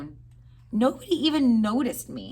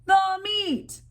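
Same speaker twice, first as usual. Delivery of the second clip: very high, loud chorus; rowdy crew demanding meat; crew roar; 13 semitones higher, 4 dB louder than usual. A narrator's reading. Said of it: "we all roared".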